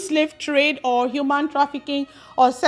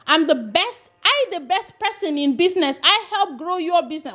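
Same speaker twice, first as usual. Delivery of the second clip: mock Italian accent; 4 semitones higher than usual. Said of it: "Both of them are terrible".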